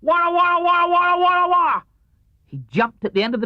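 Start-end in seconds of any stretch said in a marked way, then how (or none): 0.0-1.8 loud, high pouncing war cry; loud Tigger roar. A narrator's reading. Tigger attacks the tablecloth with a loud cry. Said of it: "one loud".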